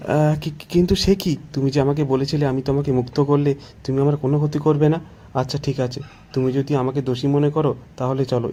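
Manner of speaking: lightly voiced farmer, stammering protest at first; mildly alarmed man pleading his case; startled farmer. Startled farmer protests, then bargains.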